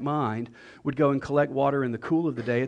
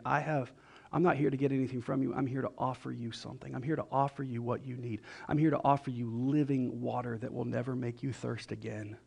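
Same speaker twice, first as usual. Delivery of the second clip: soft, gentle reassurance; sweet, kind; 3 semitones lower, 7 dB quieter than usual. Acted. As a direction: offer it tenderly, voice lowered in volume. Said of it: "some of the sweetest, kindest words".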